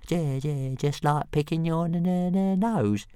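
a cocky little dragon tripping on his consonants; squeaky stammering pet dragon; stuttering little dragon. A narrator's reading. Toothless teasing reply.

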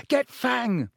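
high-pitched urgent yell, contained volume. A narrator's reading. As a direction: call out the order, pitch leaping up. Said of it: "Harry yelled".

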